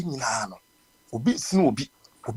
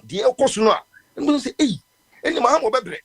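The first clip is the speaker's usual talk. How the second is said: quoted social media post; 5 semitones higher, 6 dB louder than usual. Retold or imitated. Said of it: "me say".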